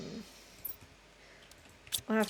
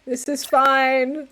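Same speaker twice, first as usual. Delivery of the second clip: strained forced calm; 6 semitones higher, 9 dB louder, much slower than usual. Real, not acted. Forced calm, slow and loud.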